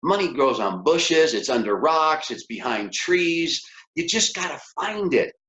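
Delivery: put-on upbeat, coaxing tone to the kids; encouraging parent. Parent telling kids money is everywhere, upbeat and coaxing. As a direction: cheerfully coax the kids to hunt for money. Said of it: "I say".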